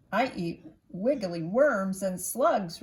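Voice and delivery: a lightly voiced bird, loud and bright. A narrator's reading. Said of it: "replied the bird".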